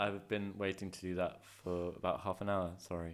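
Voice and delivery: talking through a bite of celery; words round crunchy celery; mouth full. Real, not acted. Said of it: "He just bit into a piece of celery".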